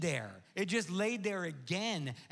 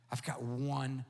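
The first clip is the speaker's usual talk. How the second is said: whisper; 6 semitones lower than usual. Real, not acted. Pastor introducing scripture to the congregation, whispered. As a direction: whisper it as a lead-in. Hushed transition.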